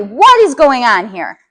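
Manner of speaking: loud, slow, harsh demand; the wrong way to walk in on fighting kids; angry demand. Shown as a demonstration. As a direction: confront them with a loud bark. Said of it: "but you're not gonna be".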